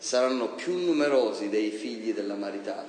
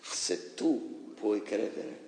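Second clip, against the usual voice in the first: calm Jesus; 4 semitones lower, 6 dB quieter than usual. Retold or imitated. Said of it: "E Gesù disse".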